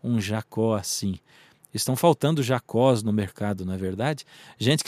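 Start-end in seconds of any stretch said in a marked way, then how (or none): 0.0-1.2 slow, mock-dreamy longing; imitated wistful sigh. Imagined girls listening to the love story, lightly sighing wistfully. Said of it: "suspirando, dizendo".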